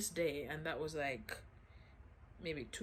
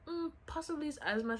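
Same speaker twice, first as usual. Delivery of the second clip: imitating the doctor; 10 semitones higher than usual. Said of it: "hearing the same".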